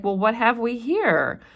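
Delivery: teacher lightly voicing the governor; lightly voiced surprised governor. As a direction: read it as a startled official spotting the child. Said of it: "He's like".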